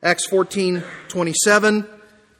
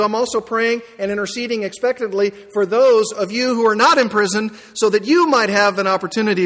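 imagined Paul; 2 semitones higher than usual. Pretend. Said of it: "I'm sure that he's saying".

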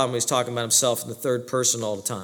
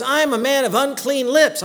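1 anguished confession; 9 semitones higher, 3 dB louder than usual. Retold or imitated. Isaiah quoted before God.

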